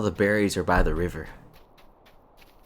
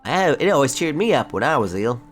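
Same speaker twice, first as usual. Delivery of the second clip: hopeful character voice; 7 semitones higher, 5 dB louder than usual. Acted. Voicing the player character's hope.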